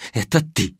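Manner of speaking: normal talking voice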